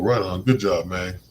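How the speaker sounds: cheerful praise. Shown as a demonstration. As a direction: hype them up with a good job. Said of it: "sometimes you just gotta go".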